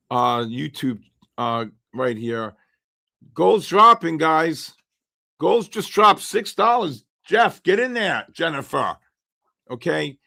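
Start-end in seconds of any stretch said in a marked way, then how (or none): 3.3-9.0 higher, eager callout as the price drops; excited callout. Real, not acted. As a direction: call it out, pumped up by the move. Gold price suddenly drops live.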